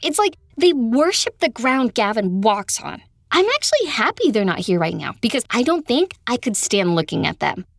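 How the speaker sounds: loud, fed-up complaint; exasperated venting. Acted. Friend vents to Kendra about her family, exasperated. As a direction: let the family frustration spill out.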